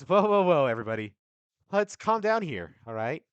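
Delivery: high, loud whoa to stop a brawl; big calm-down shout. Acted. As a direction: bellow at the crowd to calm down. GM redoes the calm-down call.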